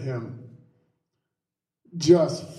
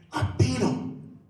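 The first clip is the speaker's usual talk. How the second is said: retold boast; 6 semitones higher, 4 dB quieter than usual. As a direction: act out a kid's triumphant announcement. Retold boast to doubting friends.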